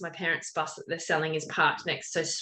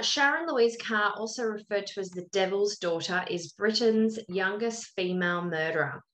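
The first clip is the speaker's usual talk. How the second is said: true crime narration; 3 semitones higher than usual. A narrator's reading. Host telling co-host about a young murderer, deliberate narration. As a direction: read out the case introduction with measured weight.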